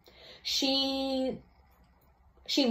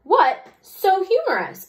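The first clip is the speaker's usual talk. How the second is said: theatrical teacher; 10 semitones higher, 4 dB louder, slower than usual. Acted. Music teacher reacts theatrically.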